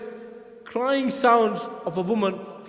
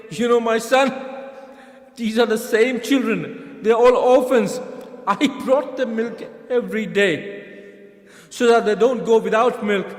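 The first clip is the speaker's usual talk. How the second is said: grieving father; 3 semitones higher, 5 dB louder than usual. Retold or imitated. Ali tells his son, grieving.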